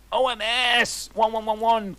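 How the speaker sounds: high, loud falsetto exclamation; hammed-up squeal; mock excited cry. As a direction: squeal it like a giddy teen. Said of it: "cried Vampire".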